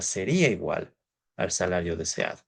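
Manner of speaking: "sería igual" stressed deliberately, each word weighed; emphasized. Shown as a demonstration. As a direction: lean on "sería igual" to mark it as key. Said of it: "y enfatizo la palabra". (acento en "sería igual", dicho despacio y marcado)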